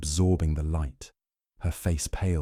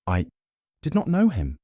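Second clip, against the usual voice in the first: firmly; 7 semitones higher than usual. A narrator's reading. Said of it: "she said firmly".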